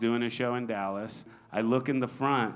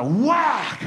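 shouted, high, laughing punchline; loud whack; 12 semitones higher, 8 dB louder than usual. Retold or imitated. Comic yelling the slap to the crowd, loud and laughing. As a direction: belt out the slap like a sound effect. Climax of slap story, sound effect.

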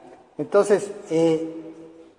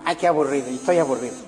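imitating a bored child; much faster than usual. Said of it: "hasta que un niño la dijo".

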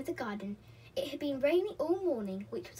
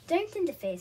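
higher, louder cross retort; mildly cross child character; 7 semitones higher, 5 dB louder than usual. A narrator's reading. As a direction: snap it a little crossly. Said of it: "said Peter crossly".

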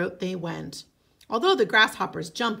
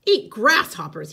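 disgusted; 7 dB louder than usual. Acted. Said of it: "he said".

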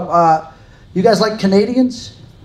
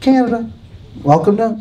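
higher, gently cooed welcome; tender high-pitched greeting; sweet, soft greeting; 4 semitones higher than usual. Shown as a demonstration. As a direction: coo it like a soft, sweet place. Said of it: "such a sweet, soft place".

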